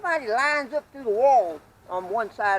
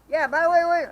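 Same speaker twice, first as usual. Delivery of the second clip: loud, high interjection, acted out; buddy butting in; 10 semitones higher, 9 dB louder than usual. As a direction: cut in as the retold buddy. Buddy Carl butting in, retold.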